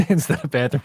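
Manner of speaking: laughing. Real, not acted. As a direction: burst of laughter into the words. Laughs at his own joke.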